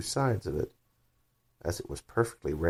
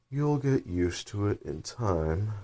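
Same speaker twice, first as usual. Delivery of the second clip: very slow, drawn-out creature voice; caterpillar voice; 3 semitones higher, slower than usual. Acted. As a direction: drawl it like a lazy, stern caterpillar. Caterpillar speaks.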